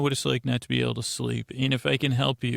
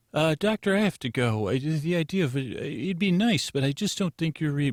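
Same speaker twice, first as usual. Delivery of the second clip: lightly acted higher, halting brush-off; institute receptionist; 4 semitones higher than usual. Institute staffer gets off call with doctor, lightly acted higher, halting voice. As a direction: excuse yourself haltingly in a higher put-on voice.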